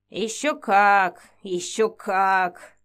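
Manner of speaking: very slow knowing reply; mysterious. Acted. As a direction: draw it out mysteriously. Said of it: "загадочно отвечала колдунья".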